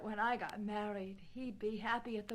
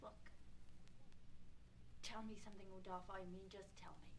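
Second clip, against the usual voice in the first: whispered, breathless asking; a soft whispered urging; hushed plea; 5 semitones lower, 16 dB quieter, much faster than usual. Acted. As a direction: beg him under your breath. Catherine presses Rodolfo quietly.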